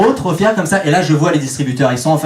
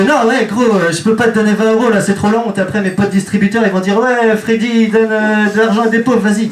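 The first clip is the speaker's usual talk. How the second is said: french suburb street slang; 6 semitones higher than usual. Retold or imitated. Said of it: "Il me fait".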